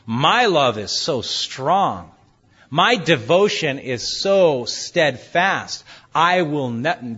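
slow, proud bragging; boastful. Retold or imitated. Peter boasting to the Lord of his steadfast love, slow and proud. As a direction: brag slowly about your devotion. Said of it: "Peter began to boast".

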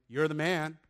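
mock crowd hype, punched out; acted acclaim. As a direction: hail him like an adoring follower.

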